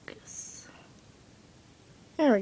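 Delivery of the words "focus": whispered "Focus" under the breath; a soft whispered "Focus". Real, not acted. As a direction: whisper it to the camera.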